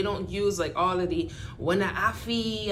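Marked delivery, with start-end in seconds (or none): 1.6-2.7 Jamaican patois. Retold or imitated. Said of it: "tone it down".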